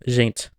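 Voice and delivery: "gente" starting with a Portuguese zh; palatalized G. Shown as a demonstration. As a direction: open "gente" on the zh sound. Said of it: "palatalization with the unique sound j".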